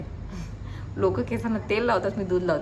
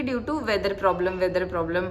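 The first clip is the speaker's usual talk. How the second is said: mock announcement; much slower than usual. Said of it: "ते सांगत होते की".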